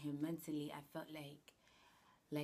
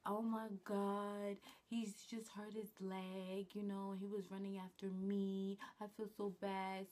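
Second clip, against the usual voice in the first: airhead voice; 3 semitones higher than usual. Retold or imitated. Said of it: "Airhead moment".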